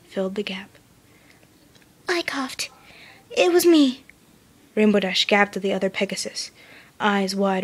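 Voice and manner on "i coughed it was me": suddenly confident. A narrator's reading. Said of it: "voice, suddenly confident".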